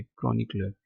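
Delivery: क्रॉनिकलर with a silent R, British style; British pronunciation. Shown as a demonstration. Teacher models British क्रॉनिकलर for students. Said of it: "ये British accent है ये".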